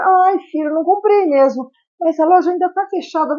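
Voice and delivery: parent playing along. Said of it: "Acompanhou e depois conduziu pro que queria".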